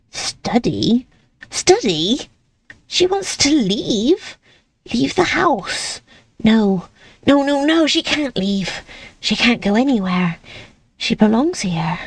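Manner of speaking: rattled aside to herself; alarmed muttering. Acted.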